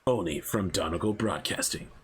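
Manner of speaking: low announcer sign-off; mock broadcast ad tag, dropped in pitch; ad tagline voice. Voiceover closes the movie ad, low announcer tag.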